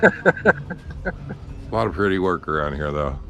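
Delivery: stiff numb lips. Real, not acted. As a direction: talk through numb, unmoving lips. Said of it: "My lips don't move".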